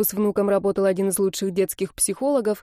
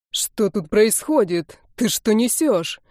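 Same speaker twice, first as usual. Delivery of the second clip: slow, mildly raised demand; a hint of an angry grandfather's shout; slower than usual. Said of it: "закричал мужчина".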